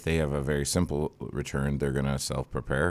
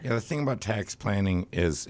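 rough, raspy smoker's voice; 2 semitones higher than usual. Real, not acted. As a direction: speak with a raspy, worn voice. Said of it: "not sure what's happening with my voice".

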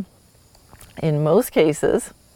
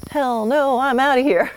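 higher-pitched mock horse saying no way; horse's flat refusal; 6 semitones higher than usual. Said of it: "your horse could go".

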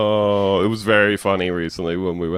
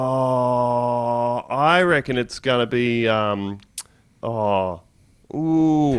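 elated radio caller; much slower than usual. Acted. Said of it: "he's having the time of his life".

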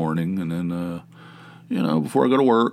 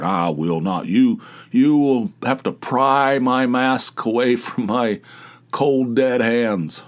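mock defiance; 3 semitones higher, 3 dB louder, slower than usual. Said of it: "There's still people that are saying".

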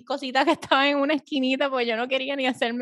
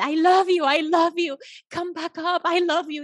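high imitated begging; mock pleading; 6 semitones higher, 3 dB louder than usual. Weepy date begging her to come back, high mock plea.

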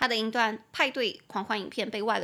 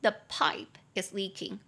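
slower model repeat; slower than usual. Shown as a demonstration. Teacher repeats the sentence slowly for students to copy. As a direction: say it again slowly and clearly. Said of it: "你就可以说".

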